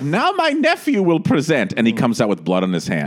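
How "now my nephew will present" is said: high, slow grand-dame voice; lofty, slow hostess announcement; Angela Lansbury impression. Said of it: "Angela's like".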